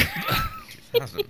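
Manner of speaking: laughing. Real, not acted. A laughing, stretched joke.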